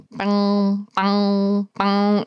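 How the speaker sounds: droning, evenly held alarm tone; fire alarm imitation. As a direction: imitate a fire alarm blaring at steady intervals. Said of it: "fire alarm that was like".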